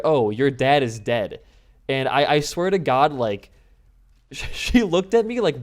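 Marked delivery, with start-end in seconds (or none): 0.0-1.4 loud, slow imitation of an Australian accent; misheard Australian accent. Customs guy as cousins misheard him, imitated Australian accent. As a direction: mimic a thick Australian accent as it was misheard. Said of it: "But with his accent, uh, we heard".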